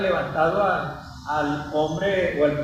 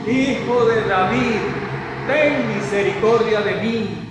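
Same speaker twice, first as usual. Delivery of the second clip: mild retold cry; 3 semitones higher, slower than usual. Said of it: "Y comenzó a gritar".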